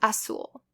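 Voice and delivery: "azul" said as "a-sool". Shown as a demonstration. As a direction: use an S sound in "azul". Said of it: "Z is pronounced like an S".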